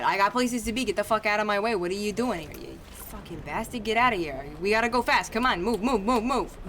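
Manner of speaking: put-on pushy Boston accent in a hurry; a Boston driver barking to clear the way. Streamer voicing his rushing character, Boston accent. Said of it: "I'm doing a Bostonian accent".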